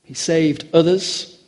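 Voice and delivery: slow, pointed mild sneer; mock sneering onlookers. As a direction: sneer it lightly, drawing the words out. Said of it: "they sneered at him".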